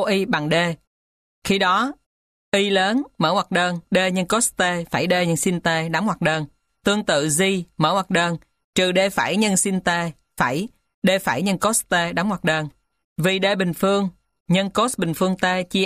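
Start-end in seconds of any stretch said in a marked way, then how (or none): none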